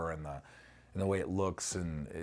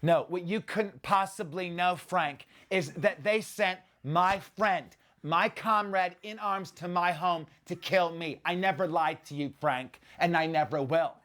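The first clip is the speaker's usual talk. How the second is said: higher, slow, menacing movie-villain delivery; Malkovich impression; 10 semitones higher, 4 dB louder than usual. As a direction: recite the villain's line like doing his voice. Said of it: "just learning Malkovich's line".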